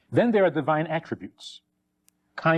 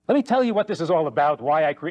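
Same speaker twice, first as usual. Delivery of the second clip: casual and quick; faster than usual. Retold or imitated. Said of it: "let his hair down and say".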